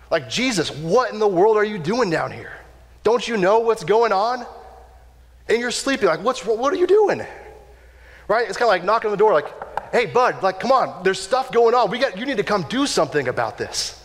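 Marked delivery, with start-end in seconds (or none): 0.3-4.4 higher, pleading, exasperated; a frustrated friend who can't believe it; exasperated disciples. Retold or imitated. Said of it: "That's kind of the attitude". 6.2-7.2 much higher, baffled and exasperated; can't believe he's asleep; incredulous demand. Retold or imitated. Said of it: "That's kind of the attitude". 9.9-14.0 higher, urging a sleeping friend awake; impatient nudging. Retold or imitated. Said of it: "That's kind of the attitude".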